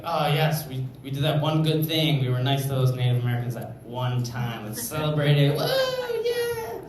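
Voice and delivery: mock celebration, rising to a whoop; mock white-guilt celebrant. Comic mocking white-guilt folks, hammed-up cheering. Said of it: "and they're like".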